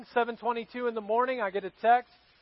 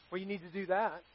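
scolding hygienist; 5 semitones lower, 11 dB quieter, faster than usual. Retold or imitated. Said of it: "asked the question".

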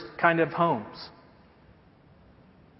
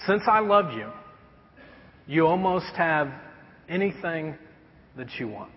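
put-on tender vow to baby. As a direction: speak it like holding your baby. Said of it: "I had to say".

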